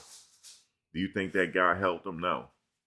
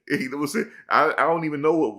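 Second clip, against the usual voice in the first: laughing; 10 semitones higher, 7 dB louder, faster than usual. Real, not acted. Laughing at his own story.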